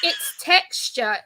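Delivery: slow, laughing "it's texture"; amused, drawn-out explanation; laughing retort. Retold or imitated. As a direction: laugh it out slowly. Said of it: "I'm like".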